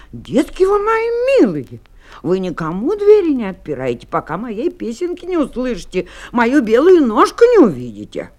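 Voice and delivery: lightly voiced mother goat. Mother goat warning her kids before leaving, lilting caution.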